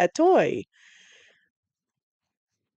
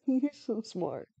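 softer, slower, laughing through it; soft laughing praise; 9 dB quieter, slower than usual. Real, not acted. Praising the dog Toto, soft slow laughing coo.

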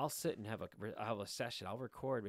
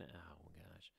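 startled whisper; 6 semitones lower, 16 dB quieter than usual. Real, not acted. Spots a pig hanging oddly.

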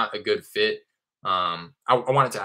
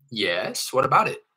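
curt owner reply; 4 semitones higher, 4 dB louder, slower than usual. Retold or imitated. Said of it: "the most common response that I get".

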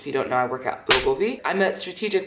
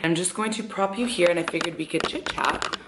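wearing a retainer; 2 semitones higher, 3 dB quieter than usual. Real, not acted. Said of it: "If I sound weird, it's 'cause I have my retainer in".

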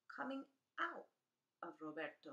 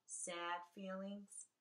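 sad; 7 dB quieter, slower than usual. Acted. Naming sad feelings, soft, slow.

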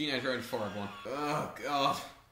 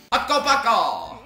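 laughing shout, higher and louder; laughing mock shout; 6 semitones higher, 9 dB louder, slower than usual. Voicing the game character, laughing shout. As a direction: bellow it through a laugh, slowly.

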